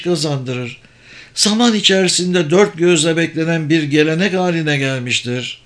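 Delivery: a lightly voiced mage explaining the scheme; kendinden emin büyücü. Sabır describes the contest. (kendinden emin, açıklayan büyücü sesi)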